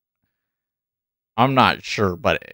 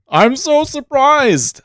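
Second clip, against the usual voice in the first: sarcastic; 8 dB louder, slower than usual. Acted. Obvious result, mock surprise.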